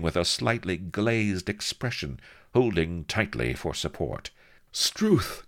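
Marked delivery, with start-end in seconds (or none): 4.7-5.4 very high, awed gasp; reverent gasp. A narrator's reading. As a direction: gasp it out in high-pitched awe. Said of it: "gasped Mistress Bonny reverently".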